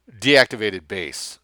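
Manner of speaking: slow, loud growl; a soldier's slow growl over a dead base. Acted. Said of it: "Lessing growled".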